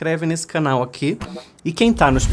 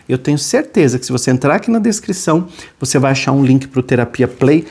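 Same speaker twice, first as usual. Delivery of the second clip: louder, upbeat ad pitch; punchy sponsor read, louder; 5 dB louder than usual. Acted. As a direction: sell the subscription. Sponsor plug.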